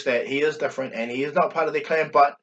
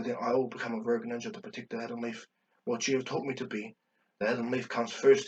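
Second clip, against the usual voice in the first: soft, quiet and grave, a son's resolve; hushed sorrowful son; 2 semitones lower, 6 dB quieter than usual. Retold or imitated. Itachi's tearful farewell to father.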